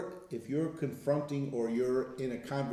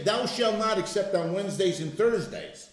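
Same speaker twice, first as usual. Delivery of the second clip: mock exception; 4 semitones higher than usual. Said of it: "It doesn't say".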